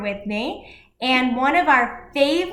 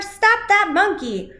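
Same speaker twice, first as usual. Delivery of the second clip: high, loud call of a zookeeper; shout; 8 semitones higher, 3 dB louder than usual. Acted. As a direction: yell after the thief. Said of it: "shouted the keeper".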